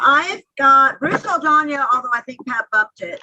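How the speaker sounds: echoey, hollow phone line; like talking from inside a cave. Real, not acted. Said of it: "sound like you're in a cave in Afghanistan".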